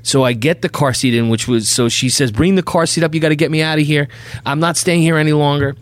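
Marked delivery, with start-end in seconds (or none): 2.3-5.7 imitated higher-pitched demand; fed-up wife. Wife orders husband to bring the car seat, imitated fed-up insistence. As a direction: mimic a wife insisting on leaving.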